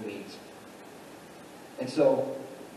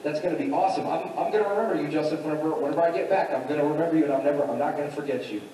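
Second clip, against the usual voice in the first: higher, eager imitation of an excited prisoner; 3 semitones higher, faster than usual. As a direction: gush as if hearing wonderful news. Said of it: "cupbearer being excited and saying".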